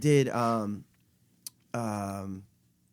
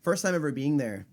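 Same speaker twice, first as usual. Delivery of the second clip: burping the words. Real, not acted. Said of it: "sorry if I'm burping a lot".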